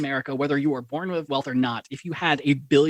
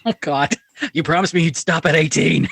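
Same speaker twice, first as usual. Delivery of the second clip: mock scolding; 7 dB louder than usual. Mock husband scolding young wife.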